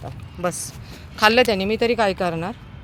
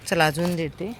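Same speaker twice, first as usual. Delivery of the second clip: ordinary talk, nothing marked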